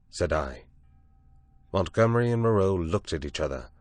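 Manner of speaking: usual speaking voice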